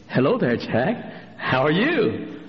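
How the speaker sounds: put-on slow, drawn-out greeting to a child; slow sing-song hello; sweet lady greeting boy. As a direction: greet a five-year-old slowly. Old lady greeting small boy.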